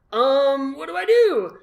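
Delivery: high, loud panicked squeak; mock panic. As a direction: play up the sudden panic. Panicked thought about the motorcycle.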